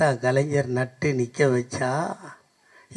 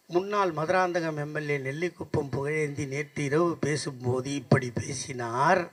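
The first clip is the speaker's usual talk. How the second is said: mock news read; 5 dB quieter than usual. Speaker mimicking morning TV report on former MLA, mock news read. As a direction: read it out like a formal TV bulletin.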